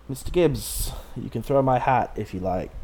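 lightly hammed pirate lilt, badly faked; terrible Jack Sparrow accent. Quoting Jack to Mister Gibbs in a badly faked pirate accent. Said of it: "That's a terrible accent".

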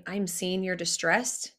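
low, slow, gentle validation; tender acknowledgement. Shown as a demonstration. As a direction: gently show that you see their pain. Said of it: "tender voice".

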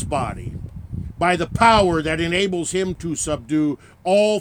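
commit the body with measured gravity; graveside committal. Acted.

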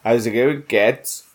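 lightly put-on Kiddie accent. Host greeting co-hosts on the show, playful Kiddie accent. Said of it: "I do this accent".

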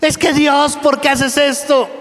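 high, sugary mock voice of a spoiled believer; sing-song high whine, acting spoiled; whiny pampered believer. Preacher mocking a comfort-seeking believer, high whiny voice.

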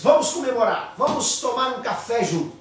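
happy invitation. Retold or imitated. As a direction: celebrate with the couple. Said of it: "ficou muito feliz e disse".

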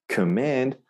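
"command" as kuh-MAND; schwa in command. Shown as a demonstration. Teacher shows the English word, "command" starting on weak kuh. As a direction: swallow the first vowel of "command" to uh. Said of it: "we go k".

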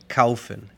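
"kaufen" with au as one gliding syllable; German diphthong. Shown as a demonstration. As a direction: say "kaufen" like "KOW-fen". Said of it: "Es A U". («kaufen» con el diptongo «au» alemán)

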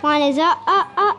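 about to sneeze. Acted. Wolf building up to sneeze.

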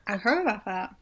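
talking around ice in mouth. Real, not acted. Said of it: "Sorry, I'm eating ice right now".

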